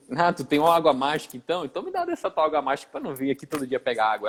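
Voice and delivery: a touch of teasing sarcasm; mocking street version. The woman at the well teasing Jesus, mildly mocking. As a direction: tease him about magic water, lightly mocking. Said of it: "Ela tá olhando pra Jesus e falando assim".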